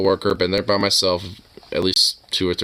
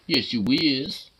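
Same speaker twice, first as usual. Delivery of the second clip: talking to a dog; 5 semitones higher, 3 dB quieter, slower than usual. Real, not acted. Slow soft cooing at pet.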